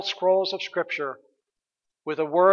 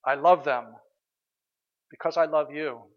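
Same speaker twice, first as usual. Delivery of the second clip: tender prayer. Acted. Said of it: "we can say".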